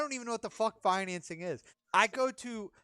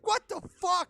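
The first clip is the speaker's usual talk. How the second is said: shocked outburst; 11 semitones higher, slower than usual. Retold or imitated. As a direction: blurt it in disbelief. Shock at all the Mustangs.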